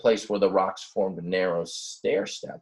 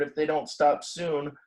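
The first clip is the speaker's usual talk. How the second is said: lightly voiced worried ram; 7 semitones higher than usual. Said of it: "thought Buford".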